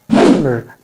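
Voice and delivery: "plumber" with a silent b; "plumber" with just m in the middle; corrected plumber. Shown as a demonstration. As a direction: say "plumber" as plum-mer. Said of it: "B is also silent here".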